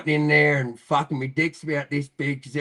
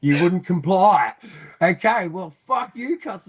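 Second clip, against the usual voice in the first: retold anger; 5 semitones higher, 7 dB louder, slower than usual. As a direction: pitch climbing into mock outrage. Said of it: "that's where I got angry".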